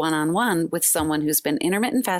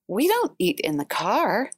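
aghast neighbor; 3 semitones higher than usual. Retold or imitated. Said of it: "she looked at me aghast".

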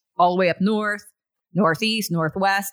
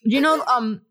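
talking around a hard candy; sucking a hard candy. Real, not acted. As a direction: mouth full of candy. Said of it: "I'm sorry, I'm eating".

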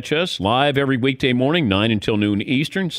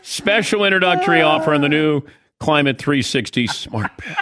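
laughing; 5 semitones higher than usual. Real, not acted. Laughing through ad read.

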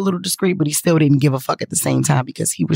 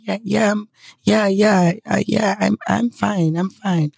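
higher, stammered mock reassurance; imitating nervous reassurance; 4 semitones higher, slower than usual. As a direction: act out a woman hastily insisting she's okay. Frightened woman insists she's fine.

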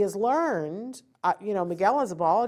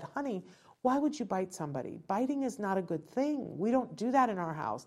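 put-on softer, gentle lap-talk to a child; tender parent; 6 dB quieter than usual. Mom with child on her lap after timeout, soft and gentle. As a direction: coax him kindly, hushed and sweet. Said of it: "put him on my lap and said".

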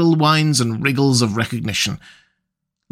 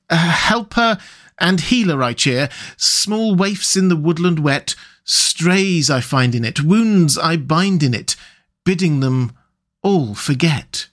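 slow, higher, hushed reciting of a poem; verse recital; 3 semitones higher than usual. Acted. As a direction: chant the words as if from far off. Rat reciting the song.

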